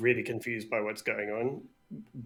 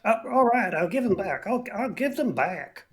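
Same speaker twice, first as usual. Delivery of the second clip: higher, louder hasty giving in; flustered surrender; 10 semitones higher, 5 dB louder than usual. Acted. Captive brigand promising to return stolen goods, high and hasty. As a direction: cave in quickly.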